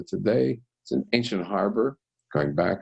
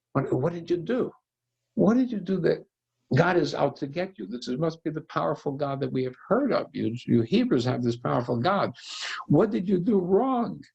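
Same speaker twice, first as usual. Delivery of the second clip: panicked sailors; 6 semitones higher than usual. Acted. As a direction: demand answers as frightened sailors. Panicked sailors confront Jonah.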